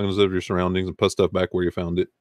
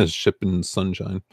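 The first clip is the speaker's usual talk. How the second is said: slow, careful retake through a laugh; laughing retry; 5 dB quieter, much slower than usual. Real, not acted. Laughing at a viewer's name she tripped over. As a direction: chuckle while getting the name right. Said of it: "such a tongue twister for me".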